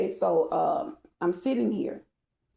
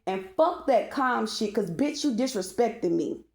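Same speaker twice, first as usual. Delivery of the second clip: getting pissed off; 3 semitones higher than usual. Real, not acted. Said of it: "you'll see why I'm getting pissed off".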